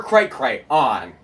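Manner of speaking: "cray cray on" with full CRAY and ON; mocking pronunciation. Shown as a demonstration. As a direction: split "cray cray on" into separate words. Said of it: "You might as well be saying".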